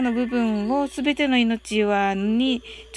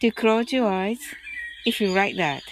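guided meditation; 2 semitones lower than usual. Acted. Leads a loving-kindness meditation.

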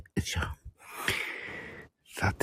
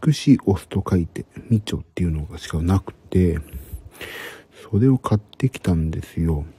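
hushed whisper throughout. Real, not acted. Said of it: "今日はひそひそ声で話しております。".

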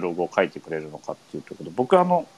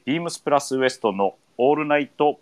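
higher-pitched, measured title call; radio show opening; 5 semitones higher than usual. Real, not acted. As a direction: announce the programme, drawing out the final words. Reads the radio show's opening. (ラジオ番組のタイトルコール)

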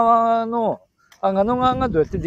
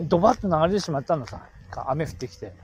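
Tsugaru dialect; 3 dB quieter than usual. Acted. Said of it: "やって、津軽弁で。".

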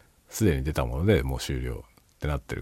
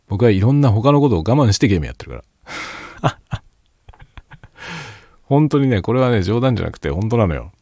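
fervent insistence; 6 semitones higher, 6 dB louder than usual. Real, not acted. Insists he sacrifices things to play.

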